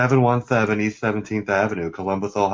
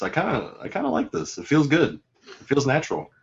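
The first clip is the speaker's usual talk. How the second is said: lightly put-on copied voice, pitched up; Don Mimic voice; 2 semitones higher, 4 dB quieter, faster than usual. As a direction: slip into a mimicked voice. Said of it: "in my Don Mimic voice".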